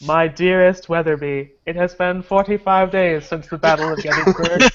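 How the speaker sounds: solemn documentary narrator; Ken Burns narrator voice. Pretend. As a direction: read it like a grave history documentary. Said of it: "I read it with my best narrator voice".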